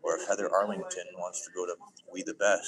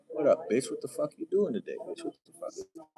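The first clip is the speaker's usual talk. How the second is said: mock crude greeting; 9 semitones higher than usual. Imagined crude greeting at Met Gala.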